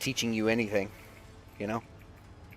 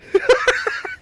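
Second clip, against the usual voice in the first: high laugh; 6 dB louder than usual. Real, not acted. Laughing at own joke.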